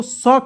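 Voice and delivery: the letter sounded as स, an s; pronounced as स. Shown as a demonstration. Teacher telling learners how the letter sounds, स shown as pronunciation. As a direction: give तलाबे श the sound of स. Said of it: "उसका उच्चारण होता है क्या".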